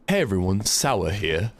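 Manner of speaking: second try at a gravelly imitation; Sour. Shown as a demonstration. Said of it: "I'm too gruff with it".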